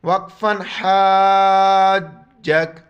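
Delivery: وقفاً حاجک ending on a bare k sound; pause form. Shown as a demonstration. Teacher to students, shows the stop on kaf. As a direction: stop on حاجک with only the کاف heard. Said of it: "صرف کاف کا جو ہے sound نکالیں".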